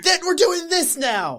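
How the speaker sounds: a hint of a high put-on voice; mildly hammed-up quote; mock announcer. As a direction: play it as a lightly voiced surprised viewer. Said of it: "I'm like".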